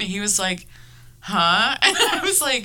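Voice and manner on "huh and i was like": words breaking into high laughter; talking through a laugh. Real, not acted. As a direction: keep laughing through the line. Laughing while retelling.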